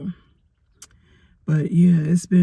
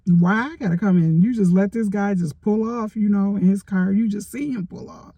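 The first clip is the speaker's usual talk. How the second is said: indignant retort; 4 semitones higher than usual. Retold or imitated. Indignant reply to attendant.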